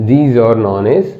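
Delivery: reads the definition out word by word, very slow; slow dictating teacher; slow dictation. Shown as a demonstration. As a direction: dictate it so students can write.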